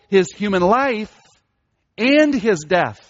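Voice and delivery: "and" set off by a pause and stressed; stress on both. Shown as a demonstration. Preacher stresses Christ's life and death, equal stress on "life" and "death". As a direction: slowly weigh "life", pause, then land "and his death". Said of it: "we see this emphasis in this section".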